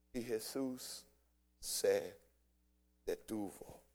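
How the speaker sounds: preacher letting the key line land softly; hushed refrain. Acted. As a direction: let the words sink to a hush.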